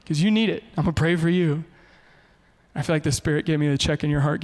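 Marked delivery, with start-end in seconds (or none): 0.0-1.6 snide jab. Retold or imitated. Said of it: "super awful".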